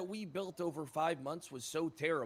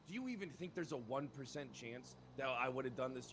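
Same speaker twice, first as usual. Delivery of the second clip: hushed plea; 6 semitones lower, 7 dB quieter than usual. Acted. Lowers voice to plead.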